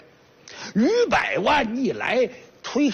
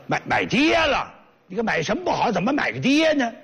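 stammered, higher, disbelieving 买，买爹了; shocked father; 4 semitones higher than usual. Acted. Rich father hears his son bought a dad, shocked. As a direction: stumble on the words, disbelieving.

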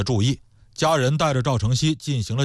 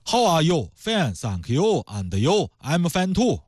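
put-on Chinese accent; 3 semitones higher, slower than usual. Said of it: "咱们中国人说英语，经常就是中国音儿的".

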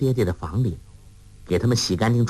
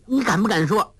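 much higher, playful teasing; teasing laugh; 10 semitones higher than usual. A narrator's reading. Girl tickling her friend to keep a secret, high teasing laugh. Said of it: "笑着说".

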